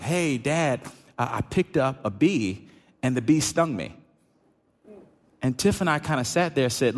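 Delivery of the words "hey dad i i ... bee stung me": lightly voiced young son telling it plainly; a hint of a small boy reporting the sting; quick matter-of-fact kid report, barely voiced; quoting his son. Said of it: "So Sawyer responds to us like".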